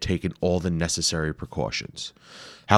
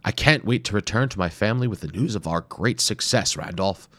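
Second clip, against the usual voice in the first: eager anxious explorer; 3 semitones higher than usual. Acted. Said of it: "pacing anxiously".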